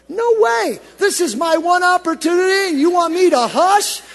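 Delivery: high, loud, defiant refusal; defiant cry. Acted. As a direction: refuse to be silenced, full voice. Blind man refuses to hush.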